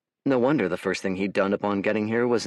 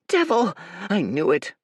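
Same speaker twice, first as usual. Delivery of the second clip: accusing shout; 11 semitones higher than usual. A narrator's reading. Village boy shouting at Dorian, sure he was right. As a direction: yell it, vindicated.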